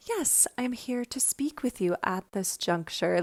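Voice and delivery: a hint of a refined Edwardian lady; Grace. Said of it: "she's talking like, kind of like that".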